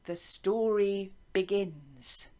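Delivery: slow storybook announcement "The story begins"; storyteller opening. Shown as a demonstration. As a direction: announce it like the start of a tale. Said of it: "It says in the music".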